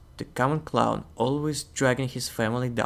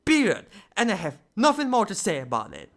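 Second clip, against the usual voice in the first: raised, indignant cartoon demon voice; Bill Cipher ranting; 5 semitones higher than usual. Bill Cipher refusing to discuss his past, indignant rant. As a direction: rant like a triangle demon who refuses to talk. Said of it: "We're making him angry".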